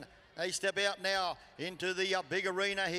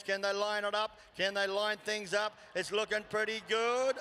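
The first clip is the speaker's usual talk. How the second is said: live play-by-play. Real, not acted. Live rodeo call builds to climax.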